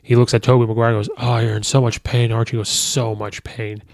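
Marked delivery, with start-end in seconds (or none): 1.2-2.6 playful mock-sympathy; teasing. Teasing Tobey about his back. 2.7-3.8 slow, soft, worn-out sigh of a phrase; old hero answering the kid's teasing, beat and tired; weary groan. Retold or imitated. Tobey answers wearily.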